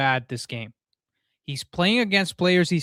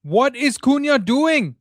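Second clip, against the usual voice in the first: slow, higher, louder disbelieving yell; exasperated shout; 8 semitones higher, 5 dB louder, slower than usual. Real, not acted. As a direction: drag the question out in outrage. Furious at player's mistake.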